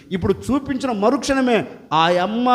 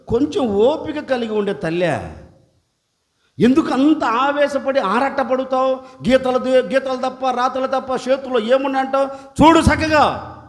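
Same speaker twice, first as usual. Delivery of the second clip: gentle Jesus; 3 semitones higher than usual. Acted. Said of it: "ఆ అమ్మతో అంటాడు".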